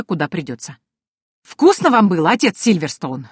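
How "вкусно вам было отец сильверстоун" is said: taunting "Вкусно" with a falling tune, level voice; mocking. Penny beating the greedy priest, mock-sweet taunt. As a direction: jeer at him while striking.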